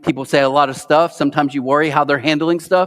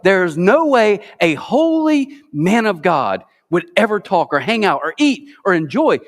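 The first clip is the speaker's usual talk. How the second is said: mocking religious critics; 4 semitones higher than usual. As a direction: sneer it like a self-righteous critic. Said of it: "they're like".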